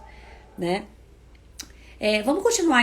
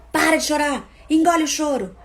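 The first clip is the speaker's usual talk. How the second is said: put-on loud, higher scolding of a crying child; scolding parent; 6 semitones higher, 7 dB louder than usual. Parent yelling at a crying child, harsh and loud. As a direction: snap at the child to stop crying. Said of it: "grande maioria ainda fala isso".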